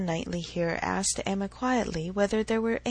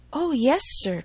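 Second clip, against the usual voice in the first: ready sympathy; 5 semitones higher, 4 dB louder than usual. A narrator's reading. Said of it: "cried she with ready sympathy".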